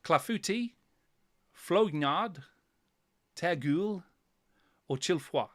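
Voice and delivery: quizmaster hamming a faux-French Bretonnian accent on each name; mock Bretonnian accent. Quizmaster reads knight names to players in mock Bretonnian accent. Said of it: "my best Bretonnian accent on these ones".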